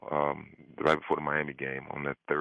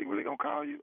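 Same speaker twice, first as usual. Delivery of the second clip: much higher, mock-incredulous friend voice; imitating his friend; 3 dB quieter, faster than usual. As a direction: squeak it out like the buddy who can't believe it. Friend on phone, voiced by teller.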